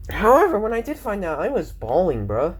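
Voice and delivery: high, swooping delivery; odd talking voice. Real, not acted. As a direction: let the pitch jump up and swoop. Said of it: "I'm talking like that".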